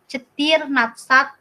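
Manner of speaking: cetir natsat said slowly and carefully; slow Russian number. Shown as a demonstration. Teacher models fourteen in Russian, slow and careful. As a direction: sound out cetir natsat for learners. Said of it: "Kamu nggak ngomongnya kayak menye".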